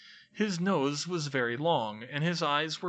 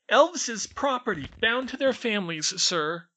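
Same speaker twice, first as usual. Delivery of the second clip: very high, loud squeaky elf whine; whined; 10 semitones higher, 4 dB louder than usual. A narrator's reading. House elf explains his bondage, whining squeakily. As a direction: complain it like a tiny servant. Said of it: "he whined".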